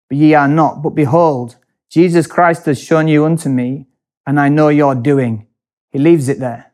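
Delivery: stern scriptural declamation; scripture reading. Acted. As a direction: read it out like a preacher condemning the church. Reads scripture aloud.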